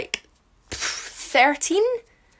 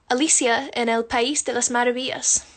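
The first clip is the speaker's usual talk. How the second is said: Spanish. Shown as a demonstration. Says title in Spanish.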